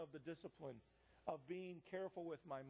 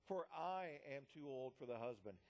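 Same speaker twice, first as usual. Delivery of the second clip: "I" given clear extra weight; stress on I; 2 semitones lower than usual. Acted. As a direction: make the word "I" stand out. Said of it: "I emphasize the word".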